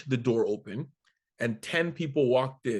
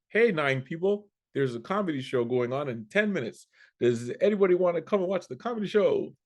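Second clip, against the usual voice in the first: raised voice, calling across the bar; 4 semitones higher than usual. Retold or imitated. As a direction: call out to the whole room.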